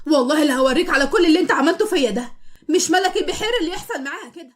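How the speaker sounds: wife yelling threats at the husband through the door; loud threat. Acted. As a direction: swear revenge at the top of her voice. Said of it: "تزعق بصوت عالي".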